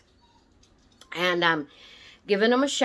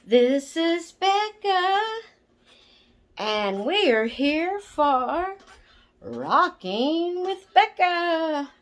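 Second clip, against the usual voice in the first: sing-song intro; 8 semitones higher, much slower than usual. Real, not acted. Sing-song greeting opening her video.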